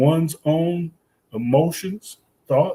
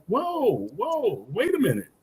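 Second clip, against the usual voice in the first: mock protest; 8 semitones higher, 5 dB quieter than usual. Teacher halting students listing their jobs, high-pitched protest. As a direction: put the brakes on them in a raised, softened pitch.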